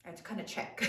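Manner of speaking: soft unvoiced aside to herself; whispered aside. Real, not acted. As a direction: mutter it under your breath.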